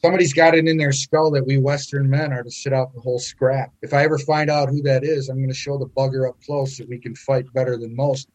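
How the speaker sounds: put-on lightly done Irish accent; a hint of an Irish soldier's brogue. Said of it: "This is in an Irish accent".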